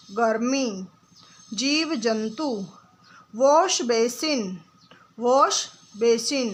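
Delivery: each word said alone, clearly and deliberately, with long pauses; slow teacher drill, one word at a time; careful word drill. Shown as a demonstration. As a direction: model every word for the class to repeat. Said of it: "आप मेरे साथ बोलने की कोशिश करेंगे".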